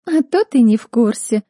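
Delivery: sneering sarcastic remark; sneering retort. A narrator's reading. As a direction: sneer it with contempt. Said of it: "скривилась моя бывшая соседка".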